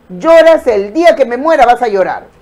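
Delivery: a hint of a firm father; father's warning. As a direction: quote papa's loving but stern words. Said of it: "mi papá ... me decía".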